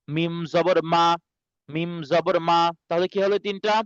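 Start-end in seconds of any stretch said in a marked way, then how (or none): 0.1-2.6 "মা" made on the dry outer part of the lips. Shown as a demonstration. Teacher showing students where the letter forms, "মা" from the dry part of the lips. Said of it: "শুকনা অংশ".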